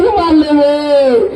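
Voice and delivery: slow sobbing wail; crying. Acted. Farmer recalling the school beating, crying slowly. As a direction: wail it out through tears.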